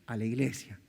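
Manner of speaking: a hint of a firm mother; stern mother. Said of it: "mi mamá decía". (madre firme, mucho más grave y seca)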